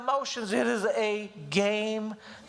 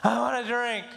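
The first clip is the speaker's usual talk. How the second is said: whiny; 3 semitones higher than usual. Retold or imitated. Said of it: "I hate the whiny".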